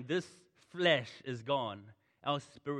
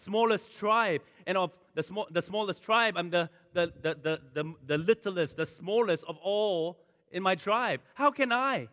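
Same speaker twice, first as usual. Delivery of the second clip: pleading Gideon; 5 semitones higher, 6 dB louder than usual. Retold or imitated. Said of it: "And then he goes".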